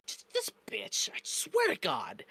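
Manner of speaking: breathy whisper, no voice at all; whispered insult. Real, not acted. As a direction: hiss it under your breath, disgusted. Furious aside at the boss on screen.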